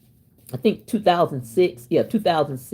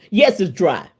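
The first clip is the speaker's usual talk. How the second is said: laughing. Real, not acted. Joking about her dry pot pie.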